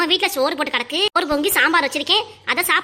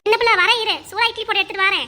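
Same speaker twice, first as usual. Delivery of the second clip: calling out; 5 semitones higher than usual. Acted. Calling after the friend who is leaving.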